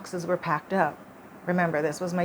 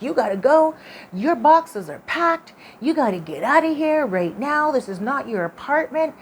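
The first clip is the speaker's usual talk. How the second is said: rushed, raspy ghost voice, higher and louder; 5 semitones higher, 6 dB louder than usual. Retold or imitated. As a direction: hurry her out in a raspy, urgent ghost voice. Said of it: "speaking in a very rushed, um, not a whisper tone, but, like, a whisper, raspy voice".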